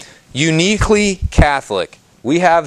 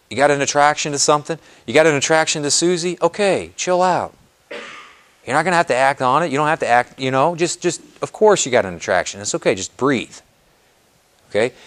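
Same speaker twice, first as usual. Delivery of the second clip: soothing reassurance. Pretend. Calming a struggling person.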